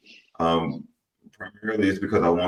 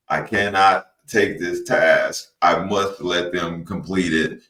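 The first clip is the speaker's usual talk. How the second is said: slow, deliberate robot voice; measured robotic delivery, word by word; slower than usual. Shown as a demonstration. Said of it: "talking in my robot voice".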